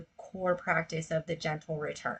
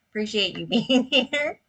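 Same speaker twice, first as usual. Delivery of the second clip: higher, louder, amused thanks; laughing; 4 semitones higher, 6 dB louder than usual. Real, not acted. Host thanks an embarrassing memory for coming, laughing. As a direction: let a laugh break into the words.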